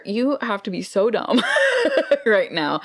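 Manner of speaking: breaks into a high laugh mid-insult; can't keep a straight face while calling him dumb; laughing through it. Real, not acted. Telling a friend about the thief, laughing at his stupidity.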